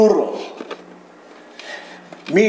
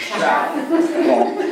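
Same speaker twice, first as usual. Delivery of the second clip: Canadian chaff; 7 semitones higher than usual. Retold or imitated. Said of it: "How does a Canadian say it?".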